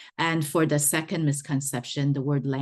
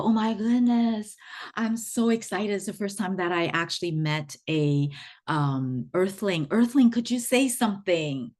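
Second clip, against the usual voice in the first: excited alien; 4 semitones higher than usual. Acted. ET excitedly meets an earthling.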